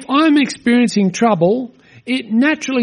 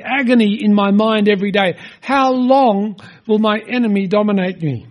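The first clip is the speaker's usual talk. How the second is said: earnest psalm reading, a little raised; scripture reading. Shown as a demonstration. Preacher reading the psalm to the congregation, earnest. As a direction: read the lament with weight. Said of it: "I'll read a couple of".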